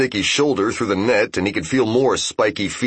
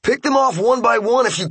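shouted order. Acted. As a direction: bark the order across the fight. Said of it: "said Ippei to the Ryoshi".

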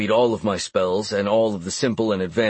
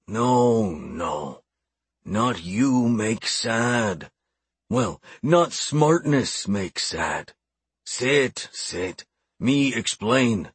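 slow, sighing orc elder; weary old orc; much slower than usual. Acted. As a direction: soften into a tired orc. Orc calms down, sighs.

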